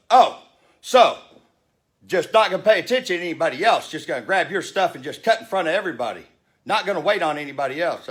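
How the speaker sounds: mealy-mouthed passenger. Retold or imitated. Rude passenger scolding the speaker, mock whiny voice. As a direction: sneer it like a prissy know-it-all. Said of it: "This mealy mouth motherfucker sitting there goes".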